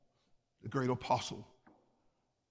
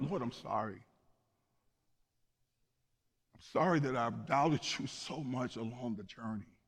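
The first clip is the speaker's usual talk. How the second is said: subdued, real tearful apology; tearing up. Real, not acted. Preacher confessing his doubt to the Lord, tearing up. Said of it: "even now I'm tearing up".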